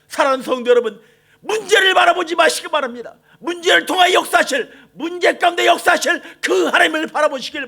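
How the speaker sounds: loud, high, impassioned sermon; shouting pastor rallying the faithful; fiery preaching. Acted. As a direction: preach it with full force to the congregation. Preaching at full force.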